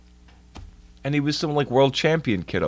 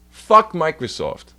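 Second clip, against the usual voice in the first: slow angry curse; 4 semitones higher, 4 dB louder than usual. Real, not acted. Streamer cursing the company, slow and disgusted. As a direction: drag out Fuck Microsoft with contempt. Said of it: "angry outburst".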